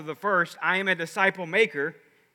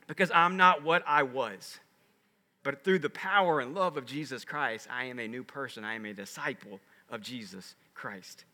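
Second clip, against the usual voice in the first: measured words fading to a low, quiet close; slowed down; 6 semitones lower, 4 dB quieter than usual. Real, not acted. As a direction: settle down, sinking lower and softer. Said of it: "let me get slow down".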